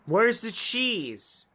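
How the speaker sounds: slow disbelieving question; incredulous. Real, not acted. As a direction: demand an answer. Slow exasperated.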